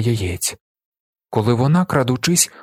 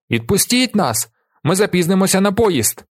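higher-pitched anxious pleading; благальний тон; 9 semitones higher than usual. A narrator's reading. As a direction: plead to be let go. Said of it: "Прохання і благання". (благально, вищим голосом)

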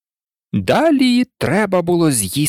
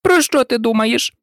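higher, mildly cross mouse voice; furious scolding; 7 semitones higher than usual. A narrator's reading. Mouse scolds inattentive Alice, angry. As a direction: demand it crossly, pitched up. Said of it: "гримнула миша на Алісу розлютована".

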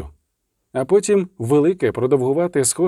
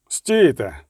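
growled. Acted. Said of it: "прогарчав відьмак".

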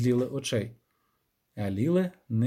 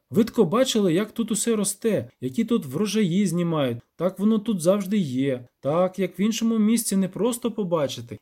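lightly voiced villager, higher pitched; villager storyteller; 5 semitones higher than usual. Villager explaining to the witcher, lightly acted peasant voice.

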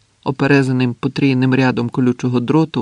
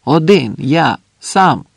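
emphatic, moderately raised reply; calling out; 3 semitones higher, 4 dB louder, slower than usual. Acted. Andres answering the sentry, calling out. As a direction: answer in separate punched words.

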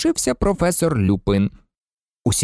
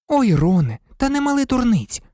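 much higher, dismissive; grimacing scorn; 12 semitones higher than usual. A narrator's reading. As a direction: wrinkle your nose at his nonsense. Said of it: "скривилася Герміона". (зневажливо, набагато вище)

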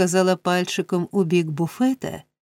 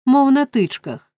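higher-pitched, agitated slip; agitated, pitch jumping up then falling; flustered blurt; 6 semitones higher, 3 dB louder than usual. A narrator's reading. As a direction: blurt out the wrong word in a fluster. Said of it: "розхвилювавшись, бовкнув".

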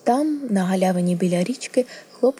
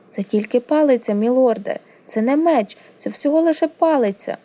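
higher-pitched, insistent pleading; anxious protest; 5 semitones higher, 4 dB louder than usual. Acted. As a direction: protest innocence to a threatening lord. Boy pleads with threatening prince.

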